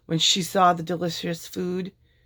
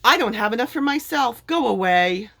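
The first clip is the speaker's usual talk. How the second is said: higher, louder dismissive snap; angry refusal; 6 semitones higher, 4 dB louder than usual. A narrator's reading. Lord Gur turning Minnie away, angry and loud. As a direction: drive her off in a temper.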